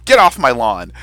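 a hint of a cranky old man; half-hearted growling old grump; mock grumpy old neighbor. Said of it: "I'm like".

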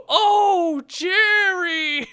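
high, loud wailing shout; mock subtitle version yelled out; hammed-up shout. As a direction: overplay the grief, very high and loud. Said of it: "the subtitles were".

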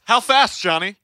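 playful prompting. Pretend. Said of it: "you might ask".

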